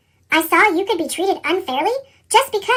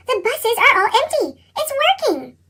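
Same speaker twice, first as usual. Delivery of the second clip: rising, higher joyful news; excited wife; 5 semitones higher than usual. Acted. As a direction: call out in amazed delight.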